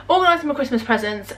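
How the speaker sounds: hiccups breaking the words; talking with a hiccup. Real, not acted. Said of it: "Sorry, I've got hiccups".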